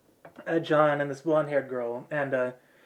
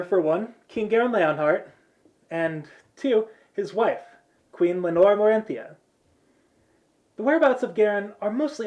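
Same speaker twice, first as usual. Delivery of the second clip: higher, emphatic briefing voice; brash mission leader; 5 semitones higher, 5 dB louder than usual. Acted. Blonde girl briefing the group on missing royals, brash leader. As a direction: lay out the facts with authority.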